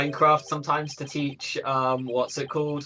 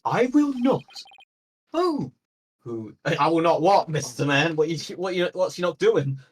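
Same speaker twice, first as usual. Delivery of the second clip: grandiose Viking professor, higher; 4 semitones higher than usual. Acted. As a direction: boom it out like a pompous Viking scholar. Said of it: "what Viking voice do I give him".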